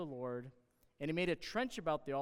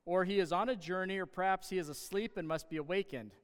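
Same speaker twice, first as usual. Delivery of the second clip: mocking; 2 semitones higher, 3 dB louder than usual. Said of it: "Elijah mocked them".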